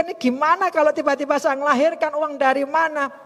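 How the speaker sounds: mild mock wail of worry; retold tearful worry. Speaker worrying about money for the birth, retold tearful worry. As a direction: fret with a touch of put-on crying. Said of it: "saya kan nangis mikir".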